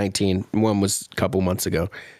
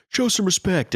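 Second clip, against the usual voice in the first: mock indignation; 10 semitones higher than usual. Voices an offended letter writer.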